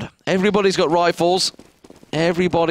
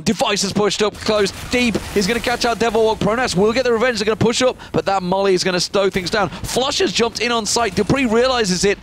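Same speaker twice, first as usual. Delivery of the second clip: higher, fast live call; excited esports caster; 3 semitones higher than usual. Real, not acted. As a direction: ride the action as it breaks. Fast round action call.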